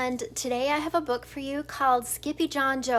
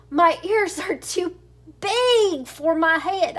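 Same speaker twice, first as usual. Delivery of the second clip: 1 Spanish accent attempt; 4 semitones higher, 4 dB louder than usual. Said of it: "using his very best Spanish accent".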